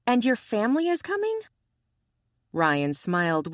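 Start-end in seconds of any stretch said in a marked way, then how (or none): 0.1-1.4 indignant. Acted. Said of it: "She smacked him in the stomach".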